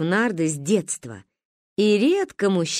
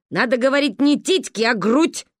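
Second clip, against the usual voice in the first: stern correction; 5 semitones higher, 4 dB louder than usual. Acted. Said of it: "рассердилась Ба".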